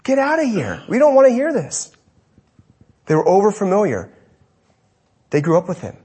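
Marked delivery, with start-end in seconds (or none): 0.0-1.9 rising to high scornful rejection; dismissive crowd. Retold or imitated. Hometown crowd rejects Jesus, high and scornful. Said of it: "they say the same things".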